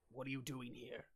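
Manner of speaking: dopey ogre guard voice; dopey cartoon bellow. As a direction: boom it like a dim cartoon brute. Ogre sentry questions party.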